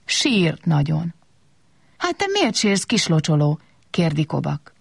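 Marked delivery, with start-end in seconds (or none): 2.0-3.6 gentle question. Acted. Kobak asks crying watering can.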